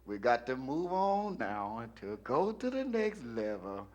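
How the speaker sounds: a touch of a droning church elder; church chairman. Retold or imitated. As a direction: slowly coax the flock to move along. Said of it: "You know how he talks".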